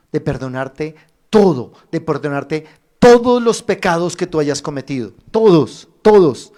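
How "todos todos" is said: emphatic repetition. Real, not acted. Preacher repeats for emphasis.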